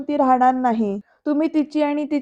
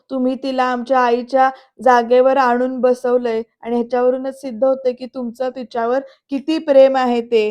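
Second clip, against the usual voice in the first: angry accusation; 4 dB louder than usual. Retold or imitated. Son accusing father, retold.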